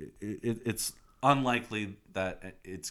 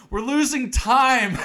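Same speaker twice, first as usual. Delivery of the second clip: high, loud, stretched-out cry; hammed-up urgent yell; mock panicked shout; 12 semitones higher, 10 dB louder, slower than usual. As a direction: shout it like a frantic cartoon hero. Revived character panics over stolen bike.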